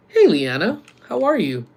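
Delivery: loud, lifted hello; cheery greeting. Real, not acted. Streamer says hi to Liana, cheery high greeting. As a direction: call out high to welcome her.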